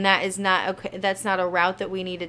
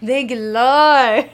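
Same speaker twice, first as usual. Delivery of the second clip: laughing; 2 semitones higher, 8 dB louder, much slower than usual. Real, not acted. Joking after blank mind.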